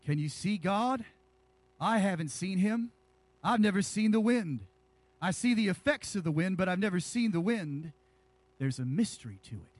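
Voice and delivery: lightly imitated evangelist with measured pauses; a hint of a famed preacher, phrase by phrase; Billy Graham. Preacher trying an impression of an evangelist for his church, lightly imitated. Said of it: "my best Billy Graham impression".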